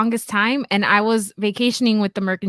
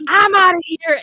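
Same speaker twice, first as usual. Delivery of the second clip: higher-pitched mock announcement of leaving; retold quick exit; 8 semitones higher, 3 dB louder than usual. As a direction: announce you're bailing, pitched up. Acts out Jeff walking off.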